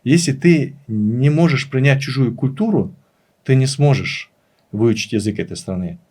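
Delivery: ordinary talk, nothing marked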